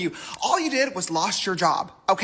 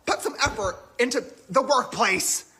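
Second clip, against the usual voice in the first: mock PTA mom. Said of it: "sounds like a fifty-year-old middle-aged mom".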